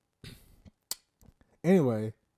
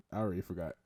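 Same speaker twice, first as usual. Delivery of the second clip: normal talking voice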